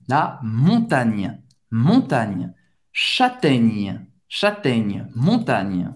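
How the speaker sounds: montagne and châtaigne ending on gn, final e silent; ends on gn. Shown as a demonstration. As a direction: end each word on the gn. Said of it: "o E no final não dá pra ouvir".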